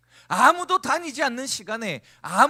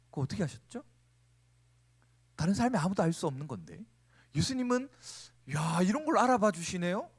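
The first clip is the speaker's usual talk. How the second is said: confident; 5 semitones lower, 4 dB quieter than usual. Retold or imitated. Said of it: "이렇게 당당하게 얘기하고 있다".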